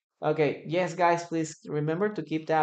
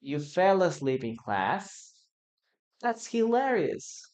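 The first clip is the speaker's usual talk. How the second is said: dictation; 3 semitones higher than usual. Shown as a demonstration. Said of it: "two more opportunities".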